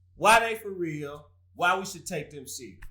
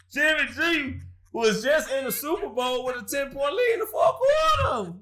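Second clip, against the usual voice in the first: incredulous shout; 7 semitones higher than usual. Real, not acted. Mock outrage over the blown lead.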